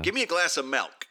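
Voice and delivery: lazy speaker's "milk", said MELK. Acted. Imitating someone ordering a drink, lazy MELK for "milk". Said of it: "It sounds like milk".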